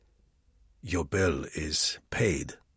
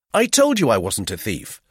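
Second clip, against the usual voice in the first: jaunty; 3 semitones higher, 9 dB louder than usual. A narrator's reading. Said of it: "I said jaunty".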